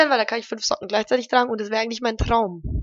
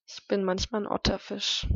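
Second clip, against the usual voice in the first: soft unvoiced whisper; 7 dB quieter than usual. Real, not acted. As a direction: breathe it as a secret. Playful whispered joke reply.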